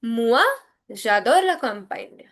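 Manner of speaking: "Moi" said firmly and set apart; emphasis on MOI. Shown as a demonstration. Teacher adding moi for emphasis, stressed "Moi". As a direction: stress "Moi", pause, then the sentence. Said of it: "But for giving emphasis, I am adding moi".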